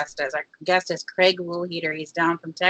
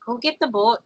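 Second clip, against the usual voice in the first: Minnesota accent; 2 semitones higher than usual. Shown as a demonstration. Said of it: "when I'm not trying, I do too".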